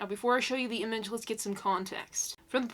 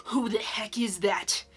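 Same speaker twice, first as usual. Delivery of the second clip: whispering. Retold or imitated. Retold friend, whispered.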